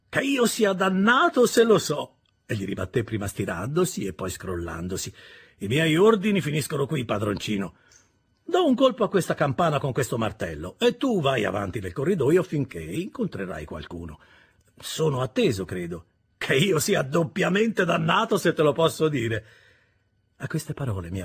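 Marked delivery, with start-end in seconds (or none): 0.1-2.1 loud, slow, high-pitched curse; surly oath. Acted. Orlick brushes off Pip's question with a loud curse. 5.6-19.5 rough, loud servant blocking the way; a surly porter grumbling his orders; Orlick the gatekeeper. Acted. Orlick refuses to let young Pip go further, rough and surly. Orlick's gruff guard-duty speech.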